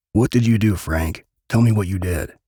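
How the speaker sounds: loud, sharp demand; angry demand. Acted. Jamie shaking Frankie for the truth, loud demand. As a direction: force the answer out of him.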